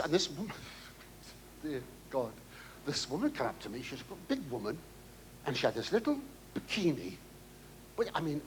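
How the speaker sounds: ordinary talk, nothing marked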